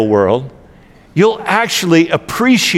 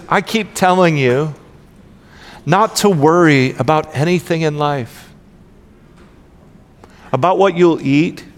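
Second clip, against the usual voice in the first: Jesus-y voice. Acted. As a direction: read it as if Jesus speaks to each listener, unhurried. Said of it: "in my best, um, Jesus-y voice".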